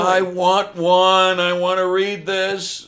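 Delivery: loud, high, drawn-out eager wish; real delighted craving; eager excitement. Real, not acted. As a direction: gush it slowly and loudly. Keen reaction to Cockney Bible news.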